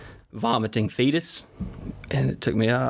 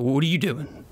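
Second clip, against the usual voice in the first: put-on higher, defensive little boy; scared kid voice; 4 semitones higher than usual. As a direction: play the caught kid. Son caught, acting scared.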